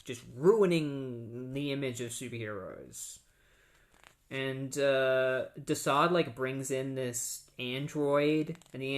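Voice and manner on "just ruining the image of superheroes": mock villain cackle sliding down into gleeful gloating. Villain revels in ruining the superheroes' image, gloating.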